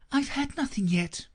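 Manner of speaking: put-on offended young Alice. A narrator's reading. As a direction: sound put out and affronted. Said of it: "in an offended tone".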